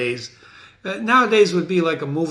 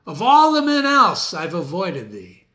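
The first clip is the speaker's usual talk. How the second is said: higher, louder lament; raised pained voice; 4 semitones higher, 5 dB louder than usual. Acted. Macbeth warning Macduff away, higher pained voice. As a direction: cry out against facing him.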